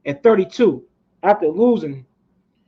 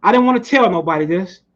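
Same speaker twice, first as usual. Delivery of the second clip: Ali boasting; 2 semitones higher than usual. Retold or imitated. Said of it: "And Ali would say".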